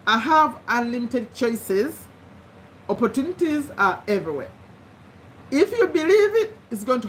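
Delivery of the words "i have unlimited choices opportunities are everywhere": slowly dictated affirmation; slow dictation. Shown as a demonstration. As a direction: read it slowly so they can write. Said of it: "Number three".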